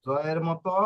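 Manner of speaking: "জয়ের" opening on a voiced জ sound; J sound demonstrated. Shown as a demonstration. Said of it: "তিন ধরনের, কোন কোন ধরনের হবে". ("জয়ের" জ ধ্বনি দিয়ে স্পষ্ট উচ্চারণ)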